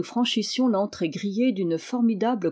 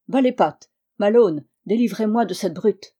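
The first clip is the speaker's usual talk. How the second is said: indignant cry; 5 dB louder than usual. Acted. Reporter held by the guard.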